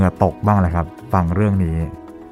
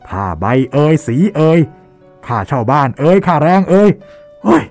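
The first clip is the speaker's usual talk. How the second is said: high, loud furious rant at a painter; furious shouting; 9 semitones higher, 5 dB louder than usual. Acted. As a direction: rage and yell, pitch climbing high. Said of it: "บริพาทออกมาด้วยเสียงดังลั่นสนั่นห้อง". (ตะโกนด่าเสียงดังลั่นด้วยความโมโห)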